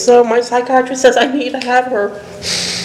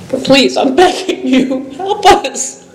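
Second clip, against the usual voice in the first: emotional plea; slower than usual. Real, not acted. Homeless woman begging the council for help, voice breaking. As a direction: beg them as the voice gives way. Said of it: "I'm trying to get emotional".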